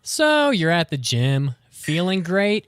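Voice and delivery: upbeat commercial voiceover; ad read. Acted. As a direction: sell it like a radio spot. Gym ad read.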